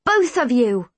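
restrained shout; screamed. A narrator's reading. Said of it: "he screamed".

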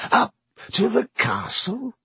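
high, mocking silky question; silkily. A narrator's reading. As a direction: toy with him smoothly. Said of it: "said Snape silkily".

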